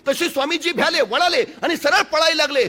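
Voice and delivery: ordinary delivery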